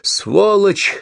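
a high piercing yell of rage; screaming as loud as possible. A narrator's reading. Woman fighting back against her attacker, high furious scream. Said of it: "закричала она как можно громче".

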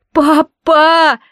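put-on a child's cry breaking into tears. A narrator's reading. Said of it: "Одан плакал".

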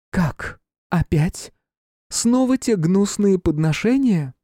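high, disdainful queen voice; haughty queen. Acted. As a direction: sneer it like a disgusted queen. Queen reacts to gifts.

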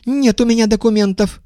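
high, thin-voiced shout; thin high cry. A narrator's reading. Guest refusing to show papers, thin high cry. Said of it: "тоненьким голосом закричал гость".

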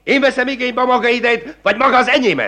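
high, fast, rising outrage; indignant tirade. Acted. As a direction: pelt him with angry questions. Magistrate flares at defiance.

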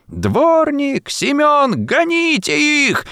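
lady shrieking orders, very high; furious shout. A narrator's reading. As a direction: scream at the servants in rage. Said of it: "закричала с искажённым от гнева лицом барыня". (яростный крик барыни)

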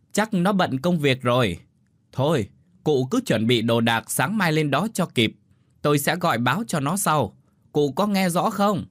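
firm, practical, voice lifted. A narrator's reading. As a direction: make sure the old woman hears the plan. Instructing hard-of-hearing old neighbour.

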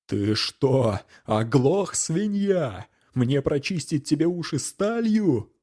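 high scornful shout; angry yell. Acted. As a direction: yell at him in contempt. Knight yells at peasant. (гневный окрик)

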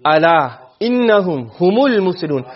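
slow, melodic recitation of the verse; Quran recitation. Shown as a demonstration. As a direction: intone each word like a reciter. Teacher quotes Quran verse.

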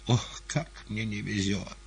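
rising despair over bad luck; mild hammed-up lament; lamenting exclamation. A narrator's reading. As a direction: wail about the bad luck. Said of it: "воскликнул он".

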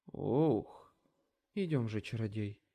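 slightly troll-like, weary tone; rougher voice. A narrator's reading. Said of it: "грубее, как у тролля". (чуть грубее, как у тролля)

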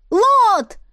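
very high, loud yell; ringing shout. A narrator's reading. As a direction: call out so ears ring. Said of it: "крикнула сестра так, что у меня в ушах зазвенело".

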